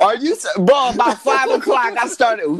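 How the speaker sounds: sing-song hype, rising into a woo; hype shout. Retold or imitated. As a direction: pump yourself up with a shout. Retelling hype shout at five.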